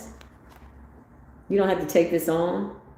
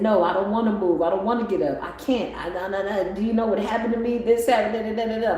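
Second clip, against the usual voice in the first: reluctant whiny self; 4 semitones higher than usual. Retold or imitated. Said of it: "I said".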